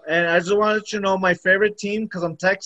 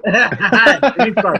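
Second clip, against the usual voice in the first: laughing; 5 dB louder, much slower than usual. Real, not acted. Laughing repeat of the punchline.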